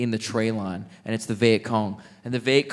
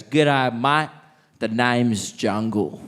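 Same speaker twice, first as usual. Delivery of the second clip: put-on old bloke greeting; much slower than usual. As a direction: savour the name, slow and proud. Seventy-year-old man introduces himself.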